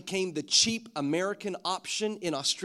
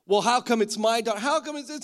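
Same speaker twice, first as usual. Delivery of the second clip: high, rising mock protest; victim complaining; 5 semitones higher, 3 dB louder than usual. Preacher acts a father asking why his daughter, aggrieved. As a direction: play an aggrieved parent lightly, pitched up. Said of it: "a victim of the situation".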